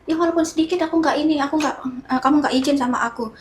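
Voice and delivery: replaying her upset complaint to the boyfriend; retold angry protest. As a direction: rattle it off in a huff. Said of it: "Terus aku marah-marah".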